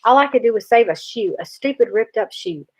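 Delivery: put-on a boy talking through his tears; crying boy pleading. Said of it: "I couldn't stop crying".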